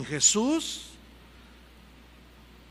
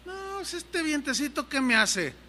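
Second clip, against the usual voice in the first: boastful Peter; 7 semitones higher, 5 dB quieter than usual. Acted.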